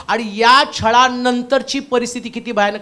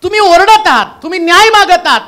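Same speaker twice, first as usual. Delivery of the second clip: high, loud calling out; loud, high voice of God speaking to crying souls; God's loud rebuke; 8 semitones higher, 11 dB louder than usual. Acted. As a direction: proclaim it as God answering the souls. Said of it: "आता तो काय म्हणतो त्यांना".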